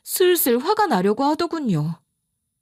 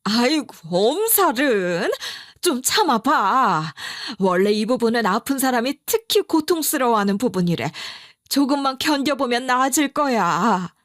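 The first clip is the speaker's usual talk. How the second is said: bullying. Retold or imitated. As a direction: brush off her pain impatiently. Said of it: "윽박질러댔어요". (엄살 떤다고 느리게 윽박지르는 시어머니)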